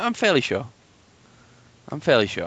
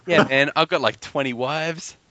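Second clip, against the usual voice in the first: higher mock gangster brag, slowing at the end; gangster king; 4 semitones higher, slower than usual. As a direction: imitate a boastful gangster, pitched up. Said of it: "just because he's so gangster".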